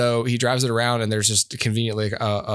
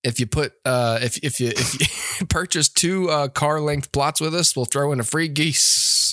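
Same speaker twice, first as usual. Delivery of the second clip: slow, hammy salesman pitch; ad pitchman; 3 semitones higher than usual. Pretend. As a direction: drawl it like a cheesy local ad. Continues mock murder bog ad.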